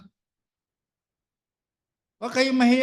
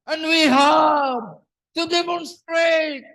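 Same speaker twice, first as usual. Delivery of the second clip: loud, slow, raised-pitch proclamation; forceful preaching; 4 semitones higher, 4 dB louder, slower than usual. Real, not acted. Preacher exhorts followers of Jesus, loud and forceful. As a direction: proclaim every phrase slowly and forcefully.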